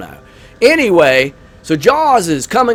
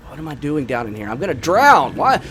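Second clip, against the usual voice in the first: mock panic; 2 semitones lower, 4 dB quieter than usual. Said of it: "I'm sorry. I get so worked up".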